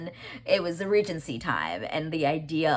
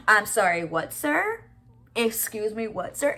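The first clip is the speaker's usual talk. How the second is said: outraged disbelief; 6 semitones higher, 4 dB louder, slower than usual. Real, not acted. Outraged reaction to his line.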